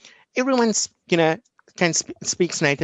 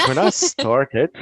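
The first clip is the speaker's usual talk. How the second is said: slow, drawn-out opening words; slow dramatic start; 4 dB louder, much slower than usual. Shown as a demonstration. Guest opening the interview, slow and dramatic. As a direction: stretch it out like a grand intro.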